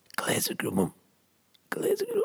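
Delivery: barely audible, faint, hushed death-rattle whisper. Retelling a dying moment as someone breathes life into him: re-enacting a light death-rattle whisper. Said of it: "really lightly, like a death rattle".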